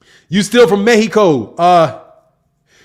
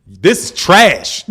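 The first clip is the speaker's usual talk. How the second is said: laughing imitation; 3 semitones lower, much slower than usual. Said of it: "He was like".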